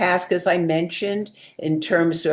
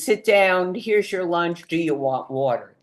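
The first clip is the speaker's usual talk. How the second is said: rushed string of orders. Shown as a demonstration. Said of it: "It's not these three sentences".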